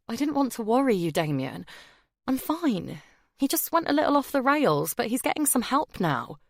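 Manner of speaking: high, fast nervous reassurance; high anxious downplaying. A narrator's reading. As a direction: talk fast to calm him.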